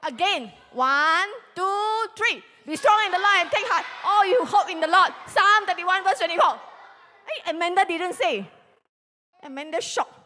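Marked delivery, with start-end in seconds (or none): 2.6-6.5 loud, high, rushed group reading; fast reading. Shown as a demonstration. Class reading the verse like a cheetah, loud and fast. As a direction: race through the verse. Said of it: "we are gonna read very fast".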